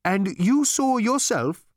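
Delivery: high, slow awed question; awed Gargravar voice. Acted. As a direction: ask in awe.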